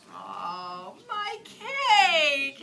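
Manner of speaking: loud high wail of dismay; crying wail. Acted. Little bunny finding her ruined cake, crying wail. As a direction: wail over the lost cake.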